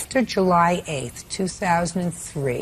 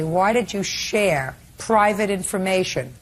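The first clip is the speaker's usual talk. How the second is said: very calm. Retold or imitated. Judge acting out teen confronting his mother, very calm. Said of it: "very, very calm when you say".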